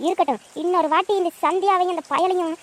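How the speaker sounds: the aunt screams back at the woman who insulted her; angry shouting. Acted.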